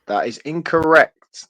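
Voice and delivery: slow, fake-serious game host ruling; mock stern verdict. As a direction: announce it gravely as a joke. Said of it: "No, I'm joking".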